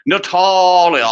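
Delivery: "Natalia" drawn out slow and high, posh; posh husband's pronunciation. Acted. Mocking how the lord calls his wife, "Natalia" high and drawn out. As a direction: stretch "Natalia" in a mock-aristocratic voice. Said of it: "Or as he calls her".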